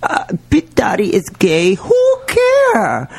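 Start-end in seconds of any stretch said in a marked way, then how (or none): 1.7-3.1 dismissive. Real, not acted. Mocking celebrity gossip.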